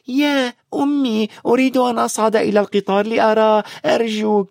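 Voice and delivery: high pleading little sister. A narrator's reading. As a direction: beg like a small girl. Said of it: "صوت شقيقتهما الصغيرة".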